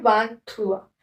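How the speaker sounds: वान थुआ as nasal "van" plus "trwa"; French pronunciation. Shown as a demonstration. Teacher modelling twenty-three in French, वान थुआ pronounced the French way. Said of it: "क्या बोलते हैं?".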